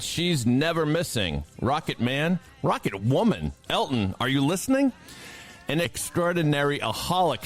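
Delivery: grand, theatrical verse recital; dramatic poem reading. Acted. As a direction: read it like an epic space ode. Reads a cosmic tribute poem.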